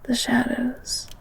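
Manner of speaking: soft breathy recounting of the book; dreamy whisper. Acted. Girl dreamily tells the beast about the book, whispering. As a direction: whisper as if lost in the story.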